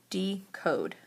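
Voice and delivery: decode pulled apart into de and code; split by syllable. Shown as a demonstration. Teacher sorting words by syllable, decode split in two. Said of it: "break the word into chunks".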